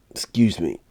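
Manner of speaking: unvoiced hushed apology; whispered excuse me. Real, not acted. Painter apologising to viewers after a burp, whispered. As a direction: breathe the apology.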